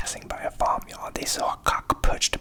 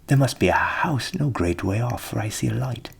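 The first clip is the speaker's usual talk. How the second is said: the cock calling out a discovery, louder; excited rooster; 9 dB louder than usual. A narrator's reading. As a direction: point out the light eagerly. Cock calls out.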